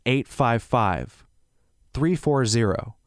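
slow, measured phone number. Real, not acted. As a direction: read the digits slowly in separate groups. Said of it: "I'll say that a little slower".

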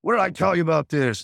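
imitating mad parent. Father lashing out at his kid, mad. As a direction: act out a father lashing out, not full force. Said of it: "then you get mad and you lash out".

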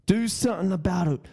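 fast, lightly voiced cocky taunt; Conor McGregor. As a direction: goad them like a mild mock fighter. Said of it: "I'm on my Conor McGregor ting".

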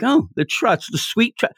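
mock groan. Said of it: "I'm like".

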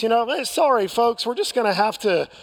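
lightly voiced pilot announcement, easygoing and unhurried; a touch of a breezy captain calmly telling folks about a diversion. Pilot over the intercom telling passengers about the diversion, mildly calm and nonchalant. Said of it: "in a very calm voice".

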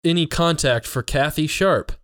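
retold Siri apology, drawn out at the end; a hint of a slow robotic assistant reply. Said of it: "it kept being like".

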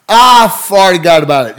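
put-on silly kid. Frank keeps joking.

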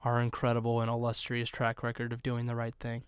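mock-earnest praise, lightly sarcastic; understated, honeyed sarcasm; dripping sarcasm. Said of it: "can't hear the sarcasm dripping off my tongue".

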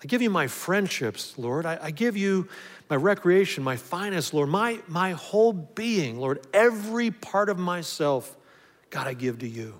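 earnest prayer, slowing near the end; quoted surrender prayer. Retold or imitated. Pastor voicing a man praying, mild earnest prayer. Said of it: "That's what he says".

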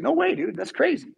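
high, casual surfer-dude donkey voice; a balking donkey saying nope; donkey refusing. Retold or imitated. Donkey balks at the fiery angel, high and casual. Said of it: "He's like".

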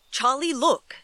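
urgent hushed call; excited whisper. Acted. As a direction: point it out eagerly. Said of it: "His dad's excited whisper".

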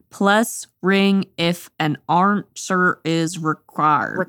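PLUS RING IF AN ANSWER IS REQUIRED sounded out slowly as misspelled; misspelled sign. Acted. Reading out Owl's misspelled door sign, slow phonetic sounding-out. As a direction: read each misspelt word slowly, one by one. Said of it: "everything's spelled wrong".

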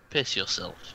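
low, hushed aside; whisper. Acted. Alistar leans down to the dog's ear, whispering. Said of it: "whispers in the dog's ear".

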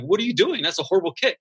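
mock coach yell. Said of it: "that coach would be yelling".

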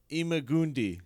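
IMAGUNDI as "ee-ma-GOON-dee"; name ending in "dee". Shown as a demonstration. Cohost offers his reading of the Jedi's name, "dee" ending.

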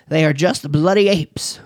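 mock English accent on the quote; quoting Lord Zuckerman in a light English accent. Lecturer quoting Lord Zuckerman in a light English accent. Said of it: "in my best English voice".

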